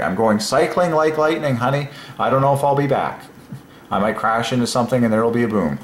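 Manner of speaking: hammed-up husband boasting to his wife; playful husband. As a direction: brag to your honey on the way out.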